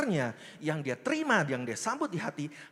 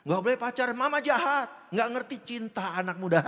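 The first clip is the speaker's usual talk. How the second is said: mock-indignant youngster, higher and louder; anak muda merajuk; 5 semitones higher, 4 dB louder than usual. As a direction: act out a teenager protesting a strict mother. Acting out a resentful youngster. (anak muda protes, pura-pura kesal)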